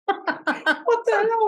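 high, slow put-on voice; imitating his own shock; mock disbelief. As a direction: stretch out the disbelief. His bewildered reply, retold.

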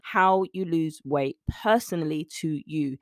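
"personally" emphasized and set apart; stress on PERSONALLY. Real, not acted. Coach telling listeners weight loss is individual, stress on "personally". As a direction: lean on the word "personally". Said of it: "I stress the word personally".

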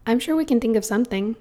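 quick, smiling reassurance; open and friendly. Acted. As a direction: say it with a smile. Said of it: "smiled the friendly soul".

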